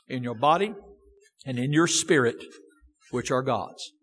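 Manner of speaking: measured, solemn Bible reading; scripture reading. Acted. Preacher reading the text to his congregation, solemn and measured. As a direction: read the King James verses with weight. Reads scripture aloud before sermon.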